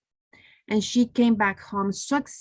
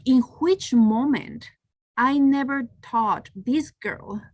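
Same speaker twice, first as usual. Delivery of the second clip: shocked; 2 semitones higher than usual. Retold or imitated. Mother questioning herself after her daughter's news, shocked. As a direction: stretch out each phrase, appalled at yourself. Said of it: "I was shocked".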